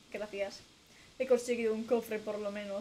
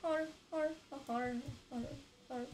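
Freddy laugh; 6 dB quieter, much slower than usual. Retold or imitated. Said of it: "Es Freddy Fazbear".

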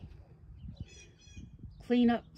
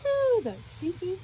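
high squeal of disgust; 10 semitones higher, 4 dB louder than usual. Real, not acted. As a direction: recoil from a bad smell. Reacting to the paint fumes.

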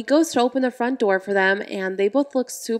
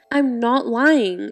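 insisting; 4 dB louder, much slower than usual. Acted. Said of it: "insists Emily".

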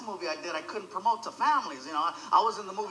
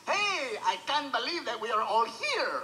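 unenthusiastic; 2 semitones higher, slower than usual. Shown as a demonstration. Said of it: "you sound really unenthusiastic".

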